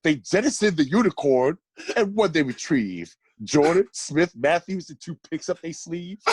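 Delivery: measured rhyming recital, landing each rhyme; spoken poem. Real, not acted. Friend reading a birthday roast poem about the Knicks, spoken poem. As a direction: read out a mocking verse with deliberate phrasing.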